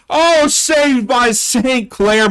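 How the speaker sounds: excited. Real, not acted. Near goal, live commentary.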